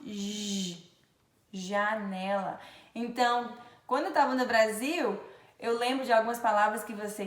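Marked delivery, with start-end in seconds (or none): 0.0-0.9 softer, sustained "zh" for J; isolated J sound. Shown as a demonstration. Teacher repeating the phoneme, J held as "zh". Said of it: "Tem o mesmo fonema". 1.5-2.6 "janela" slowly, opening on a held "zh"; slow J word. Shown as a demonstration. Teacher showing the J phoneme, "janela" said slowly. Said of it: "Tem o mesmo fonema".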